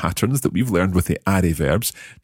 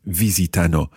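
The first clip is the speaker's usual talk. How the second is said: VI-si-ta-no as four quick notes, first one accented; four even semiquavers. Shown as a demonstration. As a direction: say visitano like a four-note musical figure. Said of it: "It's four semiquavers".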